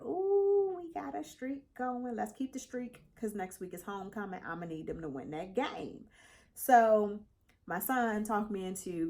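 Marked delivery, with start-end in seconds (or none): 0.0-6.0 high, gleeful ooh; excited squeal. Retold or imitated. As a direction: squeal with delight at the streak. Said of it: "So I was like".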